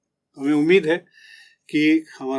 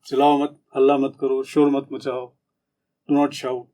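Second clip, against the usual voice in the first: tired teacher scolding; 3 dB louder than usual. Shown as a demonstration. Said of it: "teacher कहते कहते थक जाते हैं".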